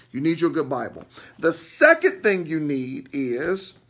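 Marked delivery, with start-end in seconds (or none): 1.4-3.8 emphatic. Real, not acted. Emphatic preaching point.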